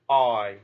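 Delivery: "I" held long, gliding up toward a close vowel; teacher modelling the long I diphthong; long I sound. Shown as a demonstration. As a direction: draw out the "I" glide clearly. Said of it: "long I sound".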